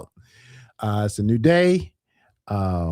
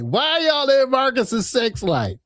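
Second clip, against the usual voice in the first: slow emphatic question; 11 semitones higher, slower than usual. Real, not acted. Repeating the question to chat.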